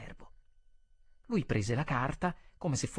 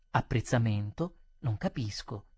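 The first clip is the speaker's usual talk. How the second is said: lower, mild innocent puzzlement; feigned surprise; 5 semitones lower than usual. Acted. Waiter pretending not to know of any remark, mildly puzzled. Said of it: "Finsi di cascare dalle nuvole".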